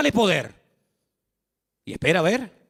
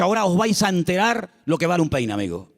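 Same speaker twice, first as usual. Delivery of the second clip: light hint of vengeful José; mock threat; 2 semitones lower than usual. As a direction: tease a mock revenge. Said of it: "Ahora él podía haber dicho". (amenaza fingida, apenas actuada)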